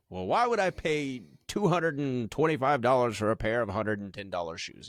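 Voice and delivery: lightly voiced old man; a hint of a grumbling old guy. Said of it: "that's my old guy voice".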